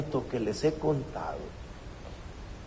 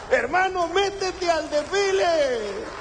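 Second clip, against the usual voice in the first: rousing exhortation; fervent appeal; 10 semitones higher than usual. Real, not acted. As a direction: urge the congregation to join in, full force. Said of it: "preacher exhorting congregation".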